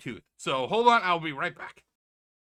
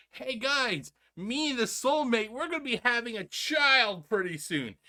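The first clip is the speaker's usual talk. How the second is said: imitating Phil; 7 semitones higher than usual. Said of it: "came out on stream and goes".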